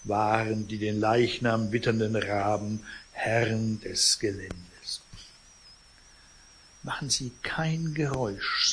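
measured read-aloud novel narration; story narration. A narrator's reading. Reader recounts the vultures in the sleeping man's flat, story narration. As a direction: read the tale expressively, phrase by phrase.

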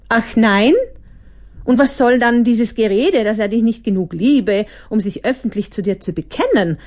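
mild mocking challenge. The Hyperkritiker scoffs at Opfer, mild mockery. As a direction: needle her with scorn. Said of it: "fragte der Hyperkritiker spöttisch".

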